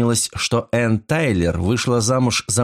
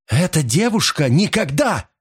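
furious exclamation; 8 semitones higher than usual. A narrator's reading. Maud crying out at the detective in fury. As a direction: reject the rival outright. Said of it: "яростно воскликнула Мот".

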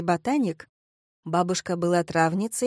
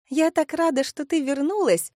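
gushing delight; 7 semitones higher than usual. A narrator's reading. Pink-haired ex-friend greeting Kristina, gushing. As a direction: overdo the joy of seeing her.

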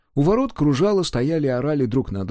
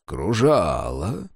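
lower, slow dignified echo, "кружало" rising; 5 semitones lower, slower than usual. Acted. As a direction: answer with a touch of dignity. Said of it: "с достоинством сказал Дакука".

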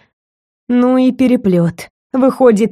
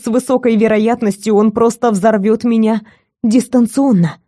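plain reading voice

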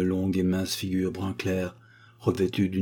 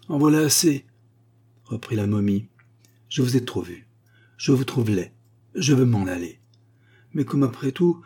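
higher, louder scornful mummy; contemptuous mummy; 3 semitones higher, 4 dB louder than usual. Acted. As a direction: insult him before resigning. Mummy resigns to curator.

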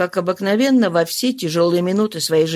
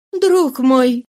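firm address; 4 semitones higher, 3 dB louder than usual. Acted. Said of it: "сказала она твёрдо".

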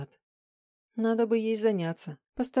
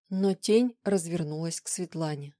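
usual speaking voice

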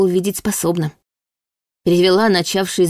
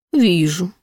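cutting cold. A narrator's reading. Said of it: "Голос демона стал режуще холодным".

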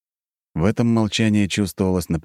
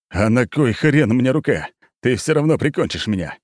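spat furiously; 6 semitones higher, 3 dB louder than usual. A narrator's reading. Bogdan spits his words at the narrator, furious. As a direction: hurl it at him in rage. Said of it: "яростно выплюнул он".

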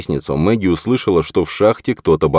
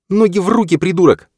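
barked; 13 semitones higher than usual. A narrator's reading. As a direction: snap it out, frantic. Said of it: "гаркнула Мэгги".

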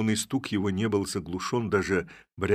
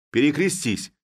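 high, louder command: cross yourself; sharp raised order; 8 semitones higher, 5 dB louder than usual. Acted. Village head to the figure inside, a high loud command. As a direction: bark the order from a safe distance.

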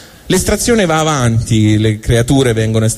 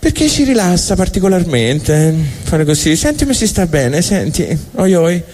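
higher, dreamy and pleased with it; blissful human; 5 semitones higher than usual. Acted. Humans explaining to God, dreamy higher voice. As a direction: sigh with pleasure at the thumbs. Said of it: "Dio ha detto".

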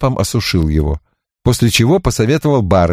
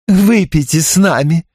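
pushy repeat, stress on выпейте; insistent invitation; 8 semitones higher than usual. A narrator's reading. Belinda insisting the detective drink, stress on выпейте. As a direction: press the drink on him again. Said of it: "не унималась Белинда".

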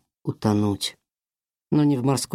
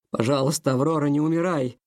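voice breaking; 2 semitones higher than usual. Acted. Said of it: "Его голос дрогнул на последнем слове".

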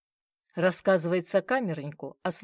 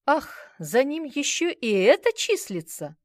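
higher, louder angry outburst; angry remark; 9 semitones higher, 9 dB louder than usual. A narrator's reading. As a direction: spit it out in anger. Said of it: "зло бросил Кирьянов". (зло и громко)

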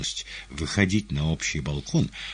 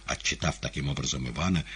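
usual speaking voice

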